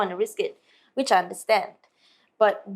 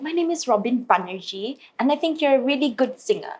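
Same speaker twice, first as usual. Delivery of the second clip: lightly attempted British accent; a hint of a British accent, badly done; Robin Banerjee; 3 semitones higher than usual. Guitarist complimenting the singer, mild British accent attempt. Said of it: "I don't do a very good British accent".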